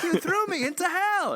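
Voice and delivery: high, hammed-up angry yell of Samantha; mock angry Samantha. Podcast host quoting Samantha punching Bob, high mock angry. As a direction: squeak it out like a furious woman. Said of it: "She's like".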